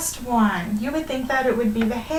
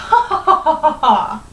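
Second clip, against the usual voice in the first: loud, staged story-book laugh; hammed-up ha-ha-ha, punched out loudly; hard laughing; 5 semitones higher, 8 dB louder than usual. Hare laughing at the tortoise, loud mock laughter. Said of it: "he began laughing very hard".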